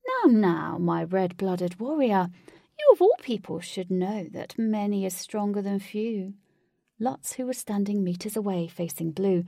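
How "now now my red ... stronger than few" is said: lightly voiced flamboyant villain, condescending; a hint of showy villain chiding a foe; theatrical villain.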